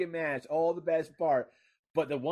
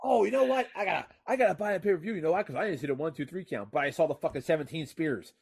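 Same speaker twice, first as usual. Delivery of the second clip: sarcastic complaint; 3 semitones higher, 5 dB louder than usual. Acted. Mock rant as a cheated viewer.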